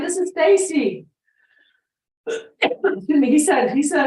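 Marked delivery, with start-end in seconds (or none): 0.0-1.1 high, loud call of his name; shouting into the phone. Retold or imitated. Caller shouting to a deaf old owner on the phone. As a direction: yell so a deaf man can hear you. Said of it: "And so I started screaming".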